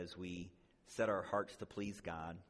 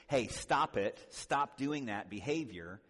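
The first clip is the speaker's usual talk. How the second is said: scolding; 2 semitones higher, 5 dB louder, slower than usual. Retold or imitated. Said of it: "Not just".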